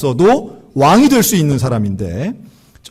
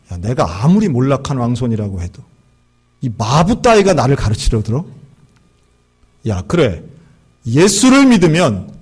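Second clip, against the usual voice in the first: angry outburst; 3 dB louder than usual. Retold or imitated. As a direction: scold the servant, dragging the words out. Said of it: "화를 버럭 내는 거예요". (마부를 꾸짖는 몰락한 왕손의 버럭 화내는 목소리)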